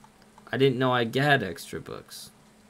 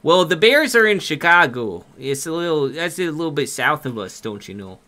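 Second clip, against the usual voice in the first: put-on Minnesotan accent. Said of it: "He loved the accent".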